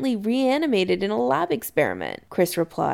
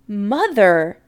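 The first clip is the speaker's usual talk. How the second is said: louder, strained interruption; near hysterical; 6 dB louder than usual. A narrator's reading. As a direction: break in, barely holding it together. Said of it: "just this side of hysterical".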